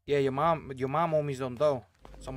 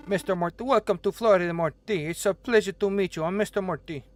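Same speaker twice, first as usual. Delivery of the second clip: boss character voice; 5 semitones higher, 5 dB louder than usual. Acted. Voicing the restaurant boss.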